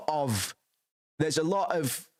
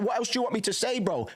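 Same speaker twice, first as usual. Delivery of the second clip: mock exasperated retort; 9 semitones higher, faster than usual. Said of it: "I, just like".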